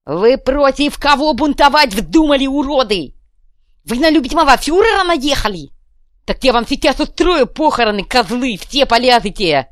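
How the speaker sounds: high, loud angry rant; furious tirade. Acted. Kuvalda berating the rebels, furious. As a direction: tear into them.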